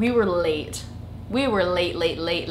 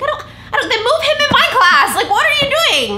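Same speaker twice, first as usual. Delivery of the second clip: much higher, laughing mock plea; whiny kid protest; 6 dB louder than usual. Kid pleading with mom about class, high and laughing. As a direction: squeak out a kid's outraged protest, giggling. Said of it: "I'm like".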